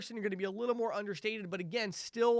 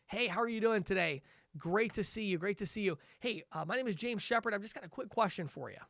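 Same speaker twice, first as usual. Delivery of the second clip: understated. Shown as a demonstration. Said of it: "that kind of understated attitude".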